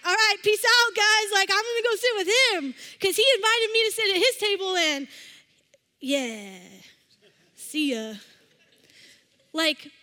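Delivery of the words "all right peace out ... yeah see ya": higher, much louder, cocky ditching of friends; hammed-up lunchroom bragging, pitched up and loud; breezy excited brush-off. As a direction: loudly announce you're off to join the cool kid. Acting out ditching friends for cool kid.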